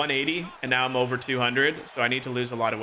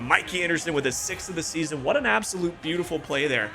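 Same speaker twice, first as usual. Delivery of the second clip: lively sportscaster calling the game; play-by-play commentary. Acted. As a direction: call it like a hockey broadcaster.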